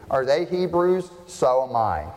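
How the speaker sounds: mildly combative scripture reading; defensive Paul. Acted. Preacher reads Paul answering his critics, mildly defensive. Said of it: "sort of strong words from Paul".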